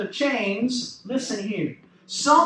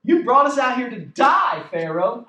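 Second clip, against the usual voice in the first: louder sarcastic protest, hitting "die"; acted sarcastic complaint; 4 dB louder than usual. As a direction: imitate a frustrated crowd's accusation. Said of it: "I just love that sarcasm".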